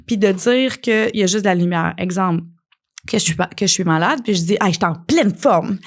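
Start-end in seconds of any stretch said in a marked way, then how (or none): 4.6-5.8 breezy fake cheer, a touch put on; mock denial. Sick person pretending to be fine, mock cheerful. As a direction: brush it off as if nothing's wrong. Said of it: "Ça, c'est du déni".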